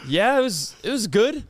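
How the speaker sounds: halting white lie, lifting at the end; unconvincing, reluctant approval with gaps; hesitant. Retold or imitated. Client covering up a bad massage, hesitant. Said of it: "you hesitated".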